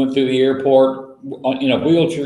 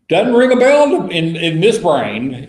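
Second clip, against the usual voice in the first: mock baffled listener; 5 semitones higher, 4 dB louder than usual. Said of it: "does that ring a bell to you".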